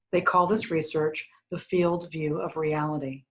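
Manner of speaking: measured book-reading voice; reading aloud. Acted. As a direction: read the passage aloud to listeners. Reads from own book.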